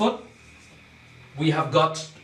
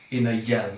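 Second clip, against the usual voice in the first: "in a yell" as one lower group, cut off after "yell"; divided into feet; 4 semitones lower, faster than usual. Shown as a demonstration. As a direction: break "yellow" after "yell" to end the foot. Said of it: "We have to divide first into".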